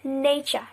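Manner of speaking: nature said nay-chur; merged ch. Shown as a demonstration. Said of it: "we pronounce it as".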